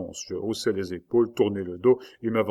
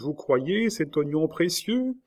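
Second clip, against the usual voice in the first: slow, high, sugary question; honeyed coaxing, drawn out with a lilt; 6 semitones higher, slower than usual. A narrator's reading. Jacob questions Rosa about the bulb, honey-voiced. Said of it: "d'une voix mielleuse".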